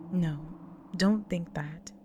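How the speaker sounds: firm, emphatic reassurance; insistent comfort, leaning on key words; earnest insistence. Acted. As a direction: press each point to lift their guilt. Insists partner is not to blame.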